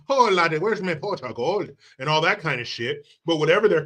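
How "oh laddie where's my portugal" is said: mock Irish accent. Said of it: "And I don't mean".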